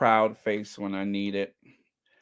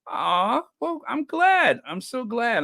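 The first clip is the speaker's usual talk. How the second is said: higher, touched aw; 11 semitones higher than usual. Real, not acted. To a viewer praising pictures, a higher touched aw. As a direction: melt at the kind comment.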